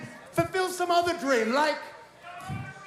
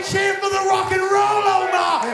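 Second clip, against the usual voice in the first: put-on British accent, loud and high, slow on the last line; loud crowd-rousing call; 5 semitones higher, 5 dB louder than usual. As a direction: work the crowd, British rock star bellowing. Heel riles up the crowd.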